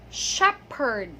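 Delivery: "shepherd" with a P sound, SHEP-perd; correct P pronunciation. Shown as a demonstration. Teacher giving learners the right word, P pronunciation. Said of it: "but it is".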